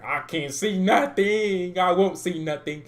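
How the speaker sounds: slow, mocking referee voice; mock blind referee. Mocking the referee's blindness, slow mock voice. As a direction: drag it out like a ref who sees nothing. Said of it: "moving like a singer".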